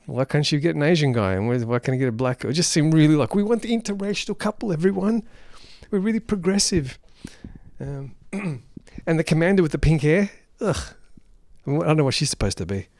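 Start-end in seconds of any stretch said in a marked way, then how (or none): 3.3-7.0 higher, imitating a proud announcement; put-on virtuous showing off; mock self-congratulation. Mocks filmmakers showing off their virtue. 10.6-10.9 short groan of distaste; disgusted ugh. Real, not acted. Disgusted at the pink-haired commander.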